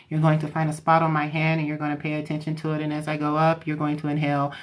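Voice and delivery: level, unvarying hypnotist drone; monotone. Shown as a demonstration. Hypnotherapist telling a client to inhale, monotone voice. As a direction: keep every word on one even note. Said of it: "very monotone tone and they talk like this".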